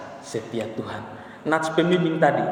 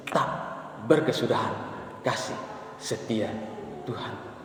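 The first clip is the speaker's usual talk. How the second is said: hushed fading verse; 3 semitones lower, 8 dB quieter than usual. Shown as a demonstration. Verse repeated, dropping to hush.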